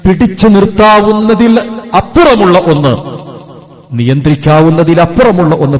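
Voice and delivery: high, emphatic preacher's cadence; impassioned preaching. Real, not acted. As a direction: build the phrases upward into a plea. Preaching builds to a plea.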